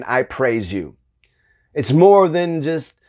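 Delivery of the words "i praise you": low, soft, going through the motions; empty rote praise, said low and soft; flat rote praise. Shown as a demonstration. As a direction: say it like an empty formula. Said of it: "it's more than just saying".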